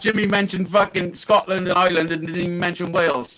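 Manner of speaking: muffled, crackling bad mic; talking from inside a fishbowl. Real, not acted. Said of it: "sounding like he's in a fucking fishbowl".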